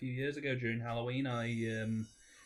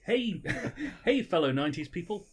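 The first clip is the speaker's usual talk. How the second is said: mock try-hard adult; 4 semitones higher, 4 dB louder than usual. Mocking a try-hard Disney adult.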